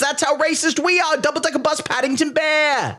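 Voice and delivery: a cartoonish Yorkshire Brit, dripping with clichés; over-the-top British accent played for laughs. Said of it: "I just did a flawless British accent".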